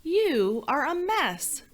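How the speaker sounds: lightly voiced prince scolding the messy princess; snooty prince. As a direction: sniff at her like a spoiled prince. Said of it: "He looked at her and he said".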